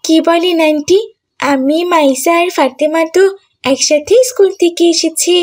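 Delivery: a schoolgirl puzzled by what she hears. Acted. Schoolgirl explaining to aunty that they left school together, puzzled.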